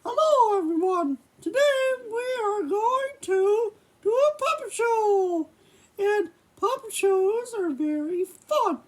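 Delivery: a hint of a cartoon mouse host; Mickey puppet voice. Puppet Mickey welcomes the audience, lightly voiced. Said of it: "we're gonna start off with Mickey".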